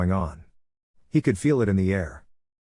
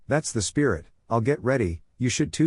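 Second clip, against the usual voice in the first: cheerful; 3 semitones higher than usual. Acted. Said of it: "suggested Kurenai cheerfully".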